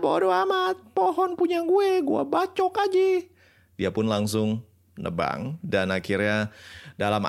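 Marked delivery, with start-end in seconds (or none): 0.0-3.3 arrogant king voice. Acted. Arrogant king laughs off warning.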